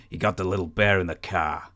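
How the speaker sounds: lightly put-on Boston accent; imitated Boston accent. Host quoting Kevin Sullivan's circus line, mild Boston accent imitation. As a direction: drop the R in car, mimicking a Boston accent. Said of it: "he always does it in the accent".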